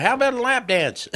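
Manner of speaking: high-pitched, laughing mimicry of son; imitated proposition through laughter; laughing quote. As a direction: crack up while quoting the line. Son's quote told through laughter.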